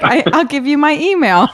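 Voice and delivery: imitating Brandon. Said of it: "your portrayal of him cracked me up".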